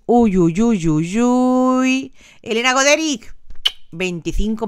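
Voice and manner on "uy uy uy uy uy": exaggerated uy uy cries; mock alarm. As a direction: pretend fright at the number. (susto fingido con uy uy)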